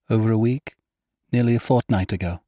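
put-on girl answering Cairn about Ferrara, restrained; lightly voiced young woman. Narrator voices Myra.

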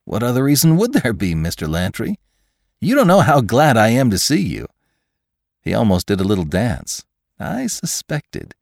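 animated, quick-running eager chatter; gush, building to an emphatic high finish; delighted scientist McClure. Acted. Scientist delighted to have found Lantry, animated and eager.

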